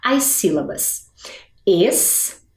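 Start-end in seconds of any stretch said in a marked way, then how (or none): 1.7-2.4 "Escrita" as es-cri-ta with long pauses; syllable counting. Shown as a demonstration. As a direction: open the mouth for each syllable of "Escrita". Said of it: "abrir a minha boca pra contar". ("Escrita" contando as sílabas, com pausas)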